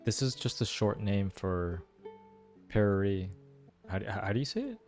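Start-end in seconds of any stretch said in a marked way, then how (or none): none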